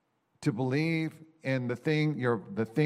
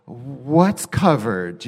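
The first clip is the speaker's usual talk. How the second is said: exasperated question; 7 dB louder, much slower than usual. Retold or imitated. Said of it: "I go".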